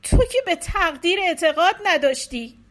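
hint of a grieving, suspicious wife; accusing wife. A narrator's reading. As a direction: lash out at her husband.

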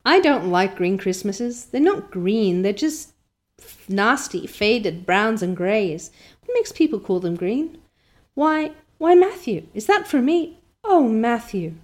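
put-on a girl stunned by a gift; excited girl Anne. Anne voiced in story reading.

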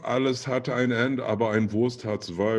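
quoting a saying as a German; lightly put-on German voice; German accent. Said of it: "keep going with the German".

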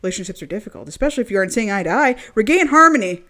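ad read. Acted. Reads love spell product page.

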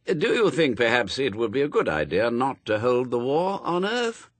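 lightly voiced hesitant angel, rising at the end; a mild, polite plea lifting into a question; tentative angel. Aziraphale timidly questions the voice.

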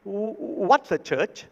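the hundred dollar bill confused by the word church; puzzled hundred dollar. Acted. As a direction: stop short, baffled. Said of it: "the hundred dollars says".

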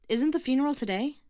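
loud, high call from behind. A narrator's reading. Girl calling to the old man's son, loud. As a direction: call after him down the street. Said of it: "she called from behind him".

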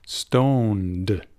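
"Stoned" slowly, ending in a D; clear final D. Shown as a demonstration. Teacher repeats the word for his student, "Stoned" with a clear D. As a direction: stretch "Stoned" and sound the final D. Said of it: "con D".

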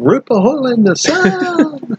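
high, drawn-out mock scream; imitated scream. Host imitating Dwight cheering on the jump, screaming. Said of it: "while Dwight's screaming".

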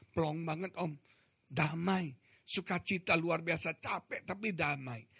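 soft, understated voice of relief; calm, relieved. Retold or imitated. Freed youth telling the preacher how it feels, calm. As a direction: let it out gently, imitating someone at peace. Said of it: "dia tenang".

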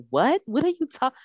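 high, loud mimicry of a baffled man; Scott. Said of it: "Scott was like".

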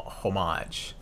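homage as "ho-MAHZH", stress on the second syllable; French-style pronunciation. Shown as a demonstration. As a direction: say homage with a long, open AH ending. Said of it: "how to properly pronounce that".

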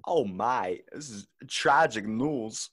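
lightly put-on voice, lingering on the words; Christopher Walken. Friend put on the spot for an impression, as Christopher Walken. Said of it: "pretty good Christopher Walken".

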